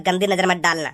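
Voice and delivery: low, slow mimicry of her warning; sneering imitation of the girl; mocking girly voice. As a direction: parrot her warning back to mock it. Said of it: "तू काली भुजंग है".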